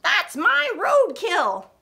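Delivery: high, loud, slow squawking bird; high screechy bird cry. Acted. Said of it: "A bird squawked".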